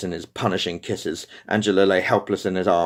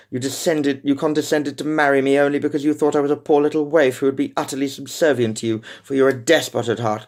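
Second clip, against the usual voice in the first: higher, scornful, cutting; 6 semitones higher than usual. Acted. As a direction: hit back with scorn. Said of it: "she said scornfully".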